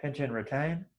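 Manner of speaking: soft, brief cues between long silences; quietly pace each breath, a touch of meditation voice; guided breathing. Real, not acted. Teacher counting students through nostril breathing, soft meditation guiding.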